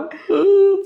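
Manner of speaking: high, drawn-out imitated wail; mock wail. Husband retelling his wife in tears, mock wail. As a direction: let out a long, high mock sob. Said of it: "a esposa tava cheia de lágrima".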